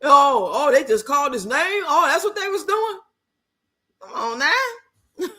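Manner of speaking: mildly hammed-up dumb-slow voice; mock slow talker. Mocking how the video talks down to viewers, mild slow parody. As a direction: drag it out like talking to slow people, lightly mocking. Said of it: "you don't have to be talking like, you know, like we fucking slow".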